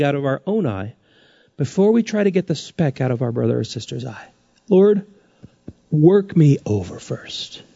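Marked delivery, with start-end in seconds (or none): 4.7-7.6 humble sample prayer. Pretend.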